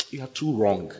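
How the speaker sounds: lightly voiced accusing devil; devil's voice. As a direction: whisper doubts like a tempter. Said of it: "This is the devil talking to you".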